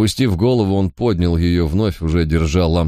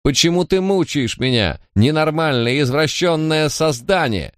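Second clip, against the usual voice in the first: furious yelling; 8 semitones higher than usual. Acted. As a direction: scream the abuse at him, voice way up. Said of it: "громко выкрикивая". (в ярости, визгливый крик на сына)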